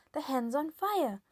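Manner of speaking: put-on old woman yelling. A narrator's reading. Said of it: "Grandma yelled".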